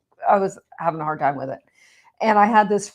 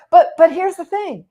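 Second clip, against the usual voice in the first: friend's voice; 10 semitones higher, 8 dB louder than usual. Retold or imitated. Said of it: "And he's like".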